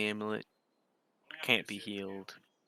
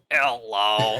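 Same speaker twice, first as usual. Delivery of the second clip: buzzy robotic voice-box hello, louder; electrolarynx voice; 10 dB louder than usual. Retold or imitated. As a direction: imitate a smoker's throat voice box. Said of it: "it sounds like the smoker thing where it goes".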